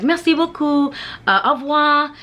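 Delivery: "Merci, merci beaucoup, s'il vous plaît" high and lilting like a local; sing-songy French. Retold or imitated. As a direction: imitate a friendly Parisian's musical thanks. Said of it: "sing-songy thing".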